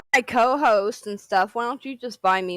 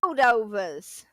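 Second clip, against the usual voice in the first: put-on New York accent; slower than usual. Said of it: "Put on your best New York accent and say foldovas".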